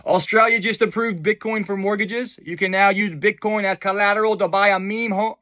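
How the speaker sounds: a clumsy attempt at an Australian accent; a botched, half-hearted Australian accent; a failed try at an Australian accent; bad Australian accent. Shown as a demonstration. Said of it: "That was a bad Australian accent".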